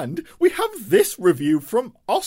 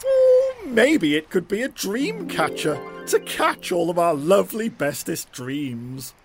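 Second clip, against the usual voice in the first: character voice; 4 semitones lower than usual. Acted. Character voice in story.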